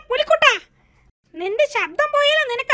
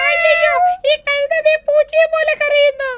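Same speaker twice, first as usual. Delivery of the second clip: panicked outcry; 2 semitones higher than usual. Acted. Animals crying in wrong voices.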